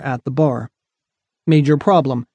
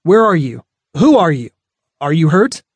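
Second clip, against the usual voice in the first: calling out with concern; 4 dB louder than usual. Acted. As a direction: call out, worried but unafraid. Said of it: "His baritone voice was thick with concern".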